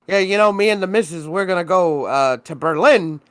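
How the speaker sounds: half-joking impression of a rich neighbor offering coffee; weird Elon voice. Friend imitates the billionaire neighbor inviting him over, mock accent. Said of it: "This is fucking weird Elon voice".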